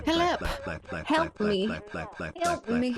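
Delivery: high, hammed-up plea for help; mock cry for help. Streamer jokingly begging chat for help in a high voice. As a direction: whimper for rescue playfully.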